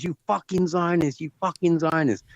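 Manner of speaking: high-pitched mock ranting; imitated hell-bent rant. Repeating the old man's abuse for friends, high hell-bent imitation. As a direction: mimic an old man going hell bent. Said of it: "he was going hell bent".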